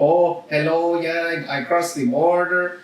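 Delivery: put-on lazy sounding Mexican accent. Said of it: "but they sound, like, kinda lazy".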